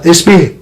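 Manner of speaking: "Esmir" formed at the back of the throat, as Turks do; throaty Turkish pronunciation. Shown as a demonstration. Teacher showing how Turks say it, throaty "Esmir". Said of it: "do pé da garganta".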